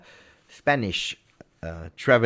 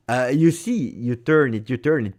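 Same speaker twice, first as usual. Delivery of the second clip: heated emphasis; 4 semitones higher, 6 dB louder than usual. Real, not acted. Ranting about football politics.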